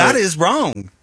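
a light Southern drawl on a flat denial; a touch of Southern drawl, firm and dismissive; Southern accent. Real, not acted. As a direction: lean into a Southern twang, half by accident. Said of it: "You had some Southern drawl there".

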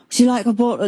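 put-on light English accent, offering kindly; a hint of an English accent offering a drink; a musician's English accent. A musician offering a pregnant fan water, light English accent. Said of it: "in his accent".

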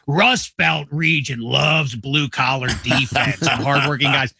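lightly voiced Rust Belt fan, slow and proud; a hint of a chest-out Midwest football guy; mock Midwest fan. Talking to Arizona hosts about Rust Belt pride, mock fan voice. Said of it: "when people do the thing of".

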